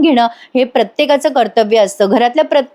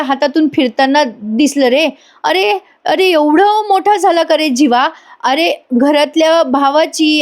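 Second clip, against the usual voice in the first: higher, lightly voiced uncle marvelling with emotion; an uncle overcome with pride, slowing on the key lines; proud emotional uncle; 3 semitones higher than usual. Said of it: "आता मिथुन काका पण बोलतात बरं का, ते म्हणतात".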